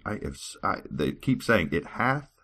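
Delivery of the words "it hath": slow, word-by-word tongue twister; slow careful. Shown as a demonstration. Reader stumbling over scripture, slow. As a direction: spell it out slowly. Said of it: "that is hard to say".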